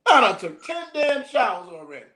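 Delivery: exasperated, half laughing; laughing exasperation. Retold or imitated. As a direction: senior exaggerates his washing, laughing.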